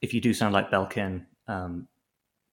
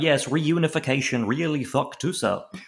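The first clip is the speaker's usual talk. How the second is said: higher, slow mock German accent; bad German accent; 4 semitones higher than usual. Impostor excusing his accent to the guard, bad mock German accent. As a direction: fake a German accent badly, drawing it out. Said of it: "That doesn't sound like a German accent".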